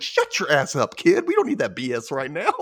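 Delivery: scolding with a laugh creeping in; mock scolding. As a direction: playfully shut the kid down. Mock scolding the boy in story.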